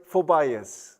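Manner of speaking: phobias said as foh-BYE-us; misread on purpose. Shown as a demonstration. Teacher showing a spelling trap: phobias as foh-BYE-us. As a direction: read phobias as it looks. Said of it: "never know how to pronounce".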